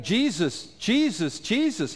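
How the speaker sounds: beggars crying out high and loud; a desperate plea, growing in pitch. Retold or imitated. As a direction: call out his name, rising each time. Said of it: "and cried out".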